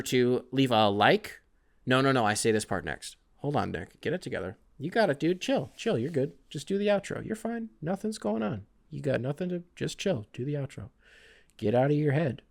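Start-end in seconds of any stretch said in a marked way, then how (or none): 1.8-12.4 softly talking himself down, under his breath; calm yourself before the outro; quiet self pep talk. Real, not acted. Host calming himself down before the outro, softly to himself.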